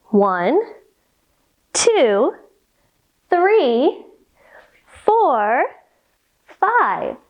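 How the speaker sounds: whispered count. Shown as a demonstration. Counting star points with kids, whispered. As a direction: whisper the number. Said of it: "counting points".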